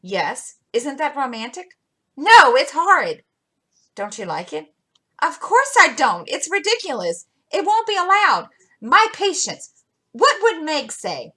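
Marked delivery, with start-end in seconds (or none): 2.1-3.2 loud, high, horrified protest; indignant outburst. Acted. Jo protesting to Laurie about Meg's suitor, loud and indignant. 5.2-11.3 scandalized, rising to a huffy end; indignant scolding. Acted. Jo scolding Laurie over the secret, high and indignant.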